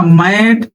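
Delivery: मैट slowly, with open "ae" as in mat; open AI vowel. Shown as a demonstration. Teacher giving an ऐ example, मैट with drawn-out "ae". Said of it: "आय का जरा बताओ".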